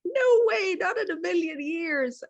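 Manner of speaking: high, loud no way, almost a cry; emphatic refusal. Retold or imitated. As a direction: throw it out as a firm refusal. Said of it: "And I'm like".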